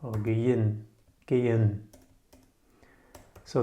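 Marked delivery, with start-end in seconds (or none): 0.1-1.9 gehen low and smooth, h silent; pronunciation demo. Shown as a demonstration. Teacher repeating variants for learners, gehen with silent h. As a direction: say gehen almost as "gain", falling at the end. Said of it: "it's pronounced gehen".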